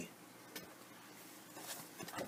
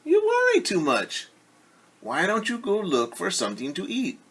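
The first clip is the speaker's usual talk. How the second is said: Ducky voice; 7 semitones higher than usual. Acted.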